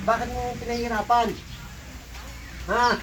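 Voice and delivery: demanding interrogation. Real, not acted. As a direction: fire the question at them. Interrogating the spirit being exorcised.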